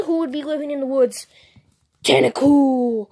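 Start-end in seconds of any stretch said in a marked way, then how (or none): 2.0-3.1 slow, drawn-out creature call; slow monster name cry; Pokemon cry. Pretend. Toy Pokemon calling its name.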